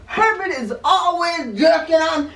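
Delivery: chuckling through the words; amused, laughing along; laughing while talking. Real, not acted. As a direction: laugh it out as you explain. Laughing at own hand story.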